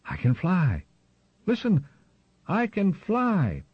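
high, drawn-out triumphant cry; acted scream, pitched high and stretched. A narrator's reading. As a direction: cry it out to the whole flock from high above. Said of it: "as loud as he could scream it".

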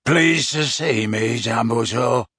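a hint of a rasping bark; rough, barking rasp. Werewolf answering Dumbledore with a light rasp. Greyback's voice.

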